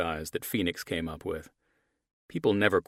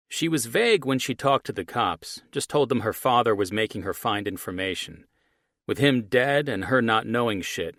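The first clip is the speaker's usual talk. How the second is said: villain on phone; 4 semitones higher, 5 dB louder than usual. Acted. Archie on phone.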